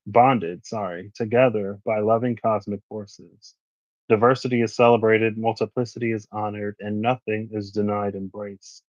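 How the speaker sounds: measured, even reading-aloud voice; card reading. Acted. Reading the tarot guidebook to viewers, measured oracle voice. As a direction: read the guidebook text like an oracle.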